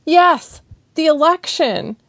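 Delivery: high, loud, urgent pleading; impassioned, near tears; passionate plea. Acted. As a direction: pour out her frustration.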